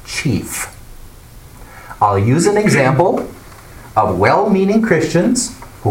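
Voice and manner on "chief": "chief" set apart after a pause, falling; slow, deliberate "chief" standing on its own; pause, then land firmly on "chief"; stress on chief. Shown as a demonstration. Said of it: "I want to emphasize the words".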